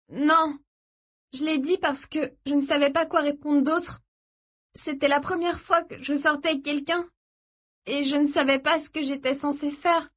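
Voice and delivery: high, tense female character voice; anxious captive. A narrator's reading. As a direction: explain yourself under threat, pitched well up. Jeune captive se justifie. (captive apeurée, voix haute)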